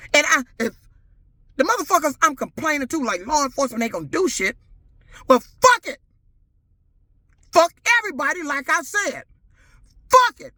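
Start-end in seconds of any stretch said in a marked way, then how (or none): 5.3-10.5 furious outburst. Real, not acted. Giving up on law enforcement.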